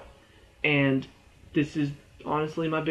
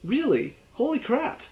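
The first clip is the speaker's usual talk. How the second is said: a teammate reacting in exaggerated surprise; mock amazed reaction. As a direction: play a friend gasping at the news. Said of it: "There was no".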